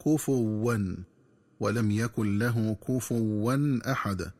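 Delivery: كفوا said "kufuwwan" with a doubled waw; wrong doubled waw. Shown as a demonstration. Teacher showing the second mistake, mild slowness. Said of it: "بتشديد الواو".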